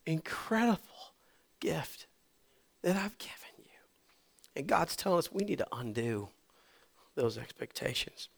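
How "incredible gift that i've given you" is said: soft tender whisper of God. Acted. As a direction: breathe it gently, barely voiced. God's tender question, whispered.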